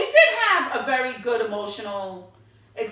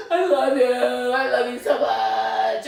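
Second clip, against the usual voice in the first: slow, sing-song mock sobbing farewell; mock gushing; slower than usual. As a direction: ham up a tearful goodbye. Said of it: "where everybody's like".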